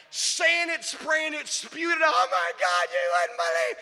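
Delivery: loud, high, shrieking gossip; hammed-up gossip. Preacher mocking social media gossip, loud hammed-up shriek. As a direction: play the drama queen spilling news.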